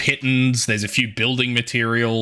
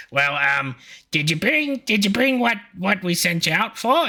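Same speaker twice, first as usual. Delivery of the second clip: much higher, coaxing question; expectant penguin parent; 9 semitones higher than usual. Acted. Penguin parent asking Poncho about the errand, higher voice. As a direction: gently press the kid. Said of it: "and he's like".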